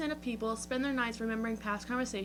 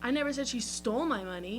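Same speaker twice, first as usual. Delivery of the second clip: "my" lifted and rising; stress on my; 2 semitones higher than usual. Shown as a demonstration. Host demonstrating the word "my" stressed to her co-host. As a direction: push the word "my". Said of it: "depending on the word you emphasize".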